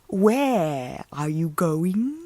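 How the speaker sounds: put-on a predator luring a little girl, slowly; sly wolf voice. Wolf questions Riding.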